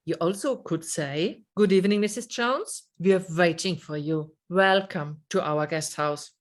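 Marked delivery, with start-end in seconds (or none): 1.6-6.3 fast, hurried welcome with no warmth; rushed greeting. Shown as a demonstration. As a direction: rattle it off as if she's a nuisance. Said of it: "Do you hear the difference?".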